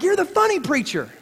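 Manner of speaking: lightly voiced excited fan at a party; imitating a fan. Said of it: "But he's like".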